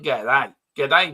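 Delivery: put-on Australian g'day; hammy mock Aussie greeting; bad Aussie accent. Shown as a demonstration. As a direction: badly imitate an Australian hello. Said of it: "in a bad Aussie accent".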